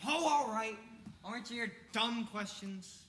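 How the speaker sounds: loud, exasperated giving-in; grudging consent. Acted. Jordan agreeing to answer police questions, grudging and loud. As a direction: give in with open annoyance.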